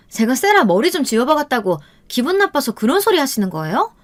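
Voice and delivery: high-pitched, haughty sister-in-law; indignant retort. A narrator's reading. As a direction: argue back, pitch climbing with outrage. Sister-in-law indignantly denies the accusation. (발끈해서 따지는 높은 목소리)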